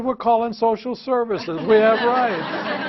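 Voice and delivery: put-on high, indignant child protesting; mocking kid voice. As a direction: whine it like a smug kid. Kids' defiant reply, voiced.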